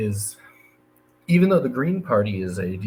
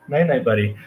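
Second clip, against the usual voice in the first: bright singsong night night; 3 semitones higher, 5 dB louder than usual. Real, not acted. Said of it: "it's bedtime for toddler".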